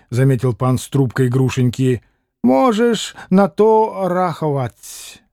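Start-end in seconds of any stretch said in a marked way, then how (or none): 2.4-5.2 slow, lightly scornful retort; contemptuous. Acted. Tall Polish gentleman scorning Grushenka, understated disdain. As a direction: cut him off with mild contempt. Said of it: "презрительно отрезал".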